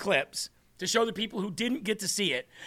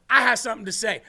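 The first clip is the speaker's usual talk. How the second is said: mock angry; faster than usual. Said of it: "the hood rat came out".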